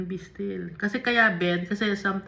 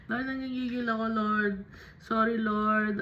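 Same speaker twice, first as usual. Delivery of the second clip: kunwaring gigil na dasal; 3 semitones higher than usual. Pretend. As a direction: act out straining to confess anger to God. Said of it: "pag may galit tayo sa puso natin". (kunwaring nanggigigil na nagdarasal)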